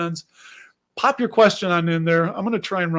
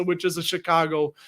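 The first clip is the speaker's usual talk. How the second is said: own Chicago accent. Real, not acted. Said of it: "did you hear that?".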